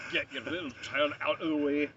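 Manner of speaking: put-on broad Scottish accent. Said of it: "these kinds of voices".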